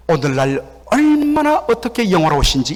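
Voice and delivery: feigned admiration with a jeer; lightly demonstrated mockery; mocking. Shown as a demonstration. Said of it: "조롱의 말이죠".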